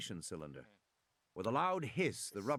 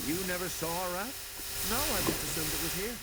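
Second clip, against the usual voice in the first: higher, voiced dialogue between man and boy; character voices; 7 semitones higher than usual. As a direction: play the quick back-and-forth. Grant and Tim exchange.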